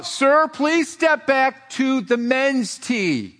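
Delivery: imitated PA announcer. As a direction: stretch out a mock PA order, insistently.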